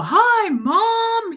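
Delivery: imitating Fred shouting hello; loud greeting. Fred greets mom on FaceTime with a loud, high hello. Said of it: "He was so loud".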